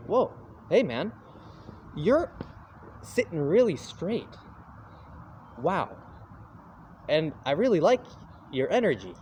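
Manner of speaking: high, bright impressed stranger. Retold or imitated. Gardener greets the calm diner, excitedly impressed. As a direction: gush at him like a wowed stranger. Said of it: "And he goes".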